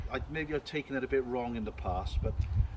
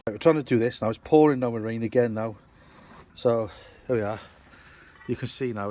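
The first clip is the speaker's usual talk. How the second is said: loud, calling over heavy rain; raised voice over rain; 11 dB louder than usual. Real, not acted. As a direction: project over the downpour. Talking over pouring rain.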